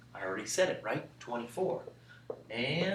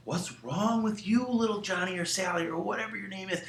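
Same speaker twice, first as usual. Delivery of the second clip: worried parent; 4 dB quieter than usual. Acted. Parent finding a sleepwalking child, lightly voiced concern. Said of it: "they're like, mom or dad".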